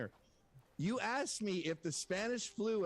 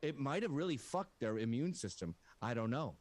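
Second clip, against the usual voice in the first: imitating a doctor; 8 semitones lower than usual. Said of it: "They go".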